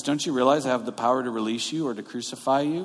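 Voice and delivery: quick retold tough talk; acting tough. Pilate trying to look powerful before Jesus, acting tough. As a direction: rattle off a mock-tough threat. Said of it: "Pilate's trying to act tough".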